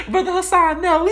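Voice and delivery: high giggling put-on voice of women scolding him; mock women laughing. Comedian mocks women listeners with a high laughing voice. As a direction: imitate women laughing at him, squealing "Brother Hassan, no". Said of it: "y'all probably laughing right now like".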